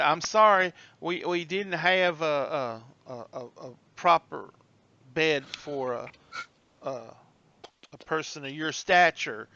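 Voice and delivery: halting, lightly voiced apology; apologetic old bellhop. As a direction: stammer an awkward apology.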